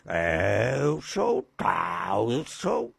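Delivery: hint of a cocky macho boast; mock tough guy. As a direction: puff your chest and boast, slowly. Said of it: "com os peitos estufados".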